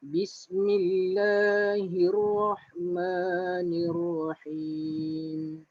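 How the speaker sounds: slow, drawn-out tajwid recitation; slow Quran recitation. Shown as a demonstration. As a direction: recite it slowly for students to follow. (bacaan tajwid perlahan)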